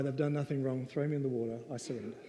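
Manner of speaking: retold quiet prayer of surrender; resigned surrender. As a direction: give in quietly, voice sinking. Acted prayer of Jonah surrendering.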